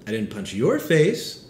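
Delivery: slow, with "your" singled out; stress on YOUR. Shown as a demonstration. Pastor demonstrating slowly, stressing your. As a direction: hit "your" in "I didn't punch your face". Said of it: "all with different meanings based on the way I say it".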